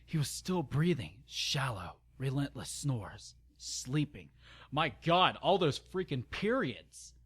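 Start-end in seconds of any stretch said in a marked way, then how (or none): 4.7-7.1 exasperated. Real, not acted.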